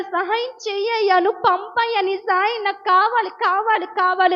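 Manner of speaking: high, desperate pleading near tears; weeping prayer. Retold or imitated. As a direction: cry out to God for help. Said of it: "ఏడుస్తుంది". (ఏడుస్తూ ఆర్తిగా ప్రార్థన)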